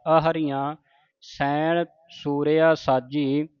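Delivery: slow, measured chanting of the verse; scripture recitation. Shown as a demonstration. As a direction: recite it slowly with pauses. Slow recitation of Chandi di Var.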